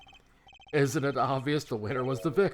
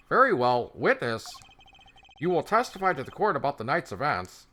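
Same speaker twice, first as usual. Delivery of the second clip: judge voice; 4 semitones higher, 5 dB louder than usual. Acted. Judge voiced in courtroom game.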